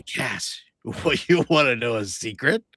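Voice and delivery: teasingly creepy secret-sharer; creepy, conspiratorial offer. Acted. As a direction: lure them in with a creepy question. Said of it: "how come you're saying it creepy".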